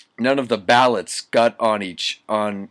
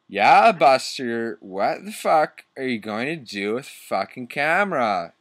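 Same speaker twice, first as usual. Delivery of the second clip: protective demand; 2 semitones higher than usual. Acted. Draco demanding answers about the camera, mildly protective. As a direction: challenge him, stretching the opening words. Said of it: "Draco demanded, all protective".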